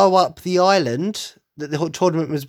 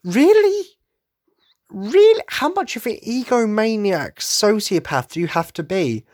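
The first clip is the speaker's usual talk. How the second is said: mock outrage at an egomaniac; incredulous; 8 semitones higher than usual. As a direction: gasp it out in disbelief at his ego. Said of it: "I'm like".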